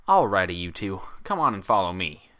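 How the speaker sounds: lightly voiced Southern mare calling; a hint of a twang, leading them on; Southern country accent. Applejack calls the others to follow, light Southern voice. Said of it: "Applejack said".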